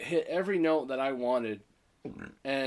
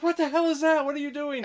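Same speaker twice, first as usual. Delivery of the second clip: very high, loud shriek; mock freaking out; 14 semitones higher, 6 dB louder than usual. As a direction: imitate a girlfriend in full panic. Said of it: "freaking out more".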